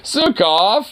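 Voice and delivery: high, rising name call; calling the dog. Real, not acted.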